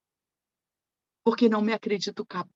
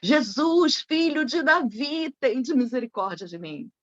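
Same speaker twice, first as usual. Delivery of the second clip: higher-pitched mock call, easing off at the end; retold cry; 3 semitones higher than usual. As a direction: imitate a beggar calling out for mercy. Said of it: "ele se põe a gritar".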